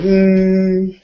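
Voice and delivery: high, loud Brooklyn wiseguy; hammed Brooklyn greeting; Brooklyn accent. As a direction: slip back into the Brooklyn act. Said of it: "I'm like".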